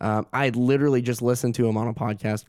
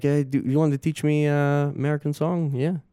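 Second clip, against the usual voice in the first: light imitation of a British-Russian accent; slightly hammed British-Russian English; 3 semitones higher than usual. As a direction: casually mimic a hybrid British-Russian accent. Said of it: "it's a very hybrid accent".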